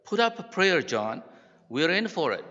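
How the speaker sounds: high, loud cry to a companion; terrified shout. A narrator's reading. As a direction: shout it in alarm as the narrator. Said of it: "the one shouted to the other".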